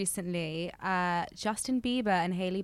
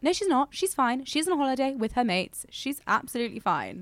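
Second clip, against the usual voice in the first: emphatic retort; 4 semitones higher, 3 dB louder than usual. Retold or imitated. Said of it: "It's like".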